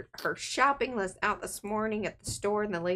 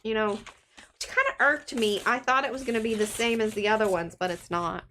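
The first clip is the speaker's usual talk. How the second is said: stuffy, blocked-nose voice; talking through a stuffed-up nose; nasal voice; 3 semitones higher than usual. Real, not acted. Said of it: "I'm sorry about my nose".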